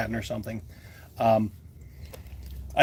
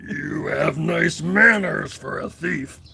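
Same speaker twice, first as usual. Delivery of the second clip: Smaug impression; slower than usual. Dragon to a thief and liar, slow menace. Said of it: "do a Smog impression".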